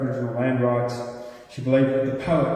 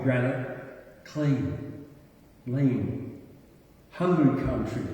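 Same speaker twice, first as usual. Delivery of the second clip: measured, solemn poetry reading; poem recitation; slower than usual. Acted. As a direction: recite with weighted phrases and pauses between images. Reads a poem aloud.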